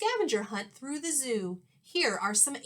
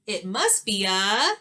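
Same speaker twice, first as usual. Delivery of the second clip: eager shout; 6 dB louder than usual. Acted. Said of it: "I shouted".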